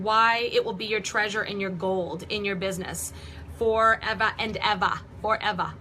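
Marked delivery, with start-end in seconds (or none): 3.6-5.7 Boston accent, dropped r in forever. Real, not acted. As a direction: let the Boston accent slip out. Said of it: "Like I had that Boston accent in there".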